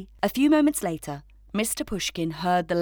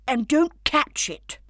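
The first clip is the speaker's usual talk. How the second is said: pleading; 6 semitones higher, 4 dB louder than usual. A narrator's reading. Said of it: "pleaded Clem".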